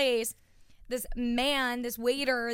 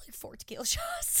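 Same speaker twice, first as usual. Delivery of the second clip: laughing; 5 dB quieter than usual. Retold or imitated. Friend recalls her ordering shots.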